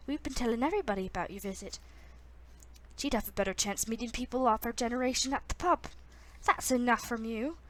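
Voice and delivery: amateur Irish lilt for bantering grandparents; weird Irish accent. Acted. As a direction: read the dialogue in a wobbly Irish accent. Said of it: "this is just gonna be a really weird accent".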